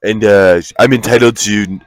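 mock Australian accent. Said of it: "That's Australia".

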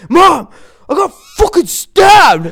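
high, loud, drawn-out wail; hammed-up tearful panic, stretched out; imitating hysterical friend. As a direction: cry out to Mom in mock hysteria. Friend retold crying out to his mom.

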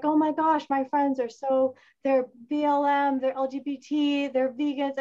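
frustrated exclaiming. Retold or imitated. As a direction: throw up your hands at friends. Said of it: "I get frustrated because I'm like".

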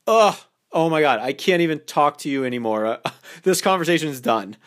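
hammed-up fake brush-off; mock dramatic disgust. Shown as a demonstration. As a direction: act mock offended and shut the talk down. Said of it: "a little bit more overly dramatic about it".

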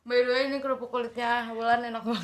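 chewing while talking; speaking through crunchy chips; crunching chips. Real, not acted. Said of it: "dari tadi denger kriuk-kriuk, itu kita lagi ngunyah keripik kulit". (sambil mengunyah keripik)

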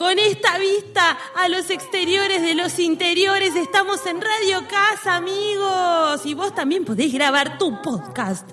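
high radio ad read; hammy AM radio plug. Pretend. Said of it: "como una radio AM". (locutor de radio AM)

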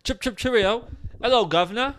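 lightly mocked British English accent; hammy attempt at stock British English; bad British accent. Shown as a demonstration. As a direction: have a clumsy go at a British accent. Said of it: "I'm not an accent guy".

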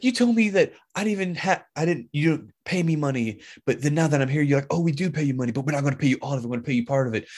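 lightly acted affronted widow; indignant protest.

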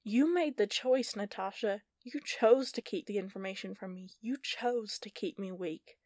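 hurt, accusing, slowing down. Acted. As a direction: throw the blame at her. Heather accuses Natasha.

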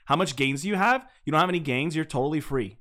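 lightly mocked streamer-style trash talk; a hint of Twitch-streamer kid; mimicking gamer kid. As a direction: rattle off taunts like a copycat kid. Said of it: "That's how they talk".

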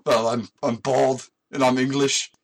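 bad English accent. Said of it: "describe what Vin Diesel looks like".

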